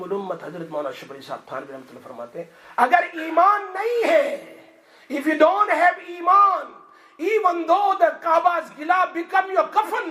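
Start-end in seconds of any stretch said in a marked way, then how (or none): 2.8-10.1 high, loud fiery sermon cry; full-force preaching. Acted. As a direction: thunder the warning at the crowd.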